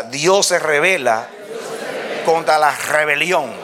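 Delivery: measured call-and-response delivery, pause after "revela"; feed "Dios se revela", pause, then "contra la rebelión"; spaced out for the congregation to echo; line for repeating. Real, not acted. Y diga.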